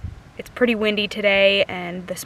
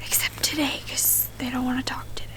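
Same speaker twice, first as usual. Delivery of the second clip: whispering; 2 semitones higher than usual. Real, not acted. Whispering in the woods before owl calling.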